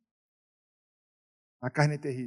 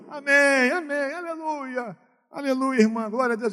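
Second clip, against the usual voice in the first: high, tearful amen and alleluia, imitated; tearful praise; 9 semitones higher, 5 dB louder, slower than usual. Pastor imitating the weeping church lady praising God, high tearful voice. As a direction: imitate her crying out praise, pitched high. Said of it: "a pastora entra pela porta da igreja chorando muito".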